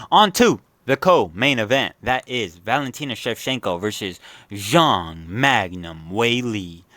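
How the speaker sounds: booming fight-night announcer voice; UFC announcer. Pretend. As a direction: announce it like the octagon intro. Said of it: "did I sound like a U F C, uh, announcer there?".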